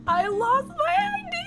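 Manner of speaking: very high, stretched-out whine; mock crying wail. Traveler telling the agent what happened, mock crying. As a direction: imitate a tearful wail, slow and high. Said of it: "I, like, start crying".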